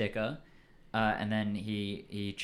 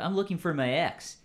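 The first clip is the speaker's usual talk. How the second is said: put-on higher-pitched Southern California surfer accent; stereotypical SoCal surfer accent; 5 semitones higher than usual. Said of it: "I'm doing the stereotypical SoCal surfer accent".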